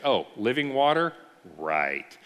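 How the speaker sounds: imitating a woman with some attitude; a taste of attitude. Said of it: "just a taste of attitude".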